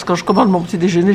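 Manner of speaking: usual speaking voice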